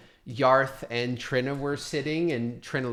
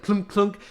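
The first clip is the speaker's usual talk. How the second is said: short imitated clunks, second one higher; clunking stone; 8 semitones higher, 3 dB louder than usual. Game master showing Mark's failed throw, clunking sounds. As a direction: mimic a stone dropping short. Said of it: "only goes like".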